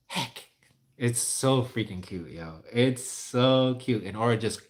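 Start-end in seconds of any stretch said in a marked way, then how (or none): 0.1-0.5 small, soft echo of HECK; baby sister echoing. Retold or imitated. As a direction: mimic a baby quietly parroting HECK. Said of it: "Aura is teaching her how to say things".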